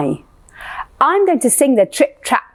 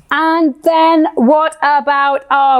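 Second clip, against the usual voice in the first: boomy big goat voice; 4 semitones higher than usual. Shown as a demonstration. Teacher introducing the great big billy goat.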